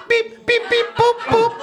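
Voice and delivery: high-pitched robotic beeping; high robot beeps. Acted. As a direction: chirp like a little robot.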